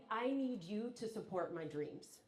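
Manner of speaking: measured, straight-up request; a frank, serious appeal to a loved one; straight talk. Acted. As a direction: say it plainly and deliberately. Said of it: "have the straight up conversation and say".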